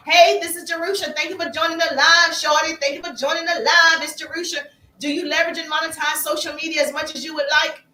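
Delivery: like leaving a friendly voice clip to a new follower; demo voice message. Shown as a demonstration. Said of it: "I'm gonna click the voice, uh, clip".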